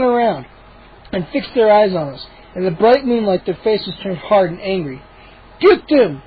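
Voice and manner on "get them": growled. Acted. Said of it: "Chip growled".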